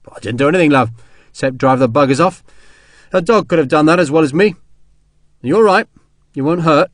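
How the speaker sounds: lightly voiced kindly common soldier; modest soldier Sharp. Soldier waving away a woman's thanks, casual and kindly. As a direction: shrug off thanks, then check on her.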